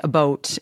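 "a boat" with a Canadian rounded vowel; Canadian "about". Retold or imitated. Host imitating a guest's Canadian accent, "a boat" pronounced like boat. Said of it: "picked up on her accent".

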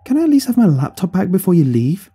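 high-pitched, aggrieved asking; exasperated plea. A narrator's reading. Son to departing mother about laptop, pleading. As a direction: beg with a note of protest.

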